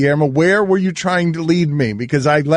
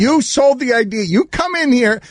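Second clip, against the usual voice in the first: exasperated; 6 semitones higher than usual. Real, not acted. Scolding producer for bit that flopped.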